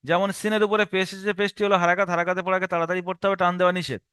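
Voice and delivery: hurried run-on rule recital; quick, unbroken drill; students' wrong method. Shown as a demonstration. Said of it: "অনেকে আছে ইজরা করতে করতে আবার বানান করে".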